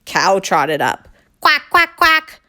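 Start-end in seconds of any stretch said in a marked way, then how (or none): 1.4-2.4 high, loud, short quacks; quacking cow. Acted. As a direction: quack in alarm.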